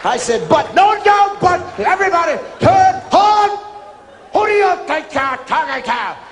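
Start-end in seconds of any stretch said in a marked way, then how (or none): 0.5-3.6 high, loud flustered protest; protesting recruit. Retold or imitated. 4.3-6.2 drill instructor yelling. Retold or imitated.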